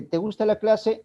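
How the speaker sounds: "¿te gusta la clase?" high, rising question; tono ascendente. Shown as a demonstration. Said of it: "es un tono ascendente". ("¿te gusta la clase?" con entonación alta y ascendente)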